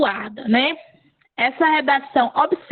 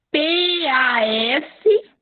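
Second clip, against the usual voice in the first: slow spelling; much slower than usual. Shown as a demonstration. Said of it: "Coloca paz".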